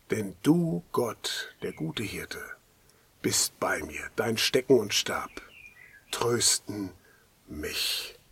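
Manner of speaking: psalm read aloud, sinking into a hushed whisper; scripture recitation. Acted.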